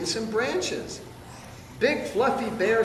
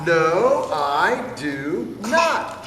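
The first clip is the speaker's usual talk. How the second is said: slow, stubborn, louder refusal; mock shout; 4 dB louder, much slower than usual. Smelly bear refusing the bath, slow mock shout. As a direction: stretch each word out in a stubborn shout. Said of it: "shouted Big Smelly Bear".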